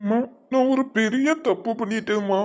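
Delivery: mildly tearful, guilty admission; tearful confession. Acted. Son admitting a big mistake to mother, mildly tearful. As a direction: confess through held-back tears. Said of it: "இப்ப எதுக்கு உட்கார்ந்து அழுதுட்டு இருக்க?".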